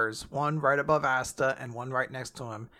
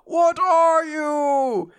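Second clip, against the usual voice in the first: much higher, louder and slow, hammed-up disbelief; shocked villain; 11 semitones higher, 5 dB louder, much slower than usual. Lucifero seeing Asta stand up, hammed-up shocked cry. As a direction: stretch it out in mock horror. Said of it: "he's like".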